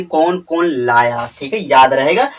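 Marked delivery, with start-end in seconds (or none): 0.0-1.3 कौन कौन लाया drawn out slowly and low; teacher spells out कौन कौन लाया for students to memorise; slow recital. Shown as a demonstration. Teacher reciting the mnemonic for students, slow and low. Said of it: "बस इतना आप याद कर ले".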